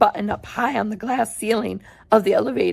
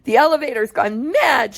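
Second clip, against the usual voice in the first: mild shout; 3 semitones higher, 3 dB louder than usual. Acted. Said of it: "shouted Grandpa Joe".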